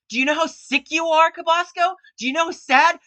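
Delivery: real upset, pitch and volume climbing; upset outburst. Real, not acted. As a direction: confront him, voice rising in real anger. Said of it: "I'm sorry for being upset".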